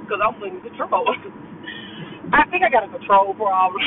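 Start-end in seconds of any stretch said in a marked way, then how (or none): 1.7-2.3 soft laugh. Real, not acted. Amused at her control claim.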